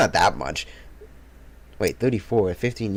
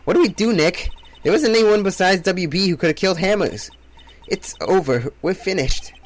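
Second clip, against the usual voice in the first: tag; 5 semitones higher than usual. Acted. Panicked character after accusation.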